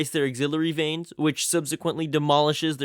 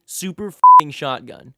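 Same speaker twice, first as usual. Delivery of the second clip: loud hype; 11 dB louder than usual. Acted. Hyped list of shotgun praise.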